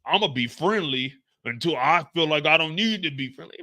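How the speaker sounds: a hint of a smug cop voice; lightly mock the cop's calm promise; low-key imitation of a smug officer; mocking Howard. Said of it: "This nigga talk about".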